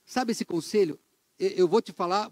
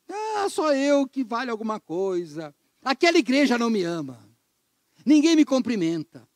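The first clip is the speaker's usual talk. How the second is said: mock whining. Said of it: "a choradeira toda dele".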